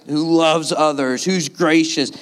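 slow, mildly exasperated list; sarcastic frustration. Acted. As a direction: praise that sounds like a complaint. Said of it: "It's like he's so frustrated".

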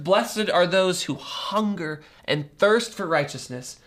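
measured, solemn reading of the Beatitudes; scripture reading. Acted. Pastor reading scripture to the congregation, measured and solemn.

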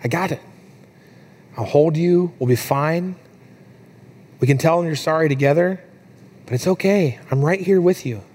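lightly acted tender comfort with pauses between phrases; retold comforting whisper. Dad comforting his sobbing daughter in her ear, tender. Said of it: "I'm whispering in her ear".

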